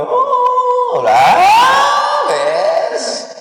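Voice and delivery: a high yelled jeer; mock jeering shout. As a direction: hoot at the crier like a teasing friend. Friends jeer at loud crier.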